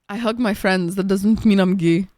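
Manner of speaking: imitating dad in an Egyptian accent; lightly voiced Egyptian-accented dad. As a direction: do dad's Egyptian accent, leaning on the last words. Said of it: "like my Egyptian accent".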